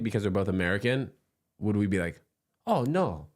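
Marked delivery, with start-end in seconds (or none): 2.7-3.3 quick mock Asian accent, higher pitch; lightly put-on Asian accent. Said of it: "that was my not American voice".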